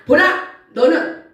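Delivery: slow, drawn-out words of God; slow divine rebuke. Acted. Preacher voicing God to the congregation, slow and stern. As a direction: stretch each word like a stern God.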